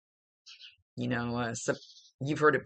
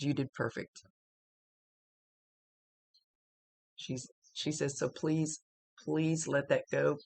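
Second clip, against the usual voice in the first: tearful. Real, not acted. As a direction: say it gently through tears. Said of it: "She's making me wanna cry".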